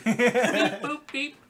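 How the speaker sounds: high robotic beep boop. Acted. Imitating robot noises in story.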